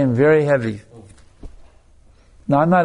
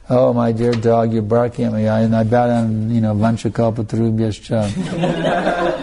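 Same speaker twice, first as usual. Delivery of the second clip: mock devotee; 2 semitones lower than usual. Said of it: "offering obeisance to every dog".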